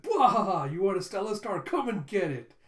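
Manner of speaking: hammed-up villain. Flunky plays villain with cape.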